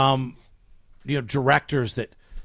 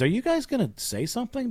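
retold challenge; 9 semitones higher, 4 dB quieter than usual. Retelling a director confronting actors.

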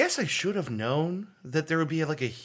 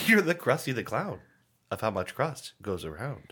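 imitating Chef John; 2 semitones lower than usual. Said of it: "That's how he talks".

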